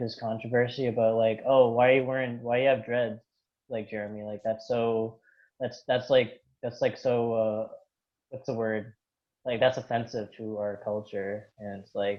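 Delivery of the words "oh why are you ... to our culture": normal talking voice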